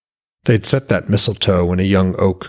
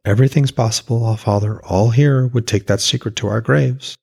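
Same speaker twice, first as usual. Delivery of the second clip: warm smiling; 4 semitones higher than usual. Acted. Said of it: "Freya's smile was like a summer breeze".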